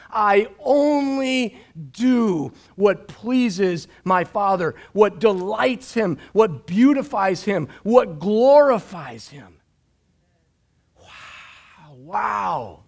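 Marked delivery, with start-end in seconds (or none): 0.1-9.6 slow, earnest declaration, swelling louder; verbalizing the verse. Shown as a demonstration. Pastor voicing verse twenty-nine for the congregation, slow and earnest. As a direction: proclaim each phrase as your own vow. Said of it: "can you imagine you and I verbalizing".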